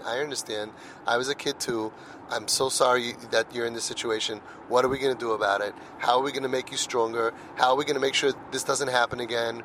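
gentle fatherly reassurance, speeding up on the questions; calm and caring, soothing a worried child; tender reassurance. Retold or imitated. Father comforting son who messed up.

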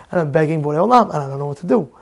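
ordinary talk

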